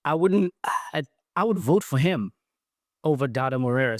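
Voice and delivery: a light mock of the DJ's accent; mimicked friend's accent. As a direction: put on a hint of the friend's accent, playful. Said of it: "you know, mimicking his accent".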